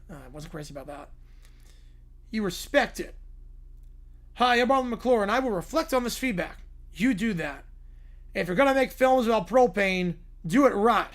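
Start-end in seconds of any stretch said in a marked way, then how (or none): 4.3-6.6 Troy McClure. Retold or imitated. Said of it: "Troy McClure". 7.0-11.1 Hank Hill. Retold or imitated. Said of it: "by Hank Hill".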